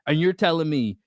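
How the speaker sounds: high-pitched indignant retelling; losing it. Retold or imitated. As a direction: replay the angry confrontation, stressing each charge. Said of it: "that's when I fucking lost it".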